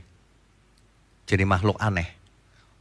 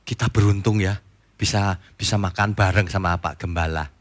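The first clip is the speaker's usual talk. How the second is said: grateful congregant; 5 semitones lower, 4 dB quieter than usual. Retold or imitated. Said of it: "jemaatnya gini lagi ngomongnya".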